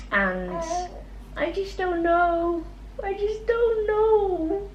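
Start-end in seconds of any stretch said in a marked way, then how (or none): 1.4-4.7 tearful. Real, not acted. Emotional about last baby.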